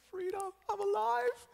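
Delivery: playful high-pitched celebration of survival; relieved cry. Retold or imitated. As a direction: squeal it out like you just escaped. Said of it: "I'm like".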